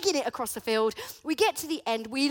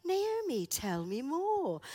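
gentle coaxing; 3 semitones higher, slower than usual. Retold or imitated. Gently coaxing her daughter to talk.

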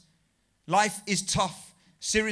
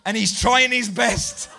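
slow, reproachful put-on voice; a slow, wounded telling-off; mock offended aunt; 4 semitones higher, 8 dB louder, slower than usual. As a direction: play the hurt aunt defending her nephew. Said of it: "she says".

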